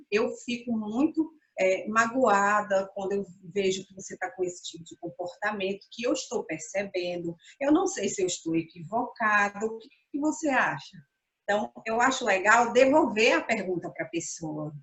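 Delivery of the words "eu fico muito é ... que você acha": suave e mais baixo, sem acusar; falando dos sentimentos. Shown as a demonstration. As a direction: diga com calma como você se sente. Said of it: "comece pelos sentimentos". (demonstração suave de uma esposa magoada)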